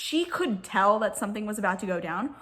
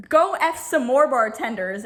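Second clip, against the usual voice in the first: retold yell; 6 dB louder than usual. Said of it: "Jackson yells at her and says".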